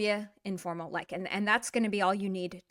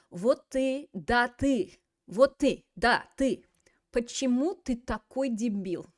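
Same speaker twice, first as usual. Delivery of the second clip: mock insult; 3 semitones higher, 4 dB louder than usual. Teacher acts out an insult meme.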